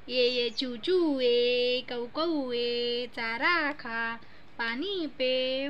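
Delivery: very slow, stretched vowels on each call; sing-song bird call. Pretend. Mother calling sparrow and crow for baby, slow sing-song. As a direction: coax the little birds over in drawn-out syllables. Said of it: "चिवला बोलव".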